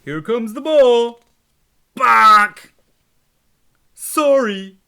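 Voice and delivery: loud high eager voice; snake. Acted. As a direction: throw with eager energy. Snake throws the ball.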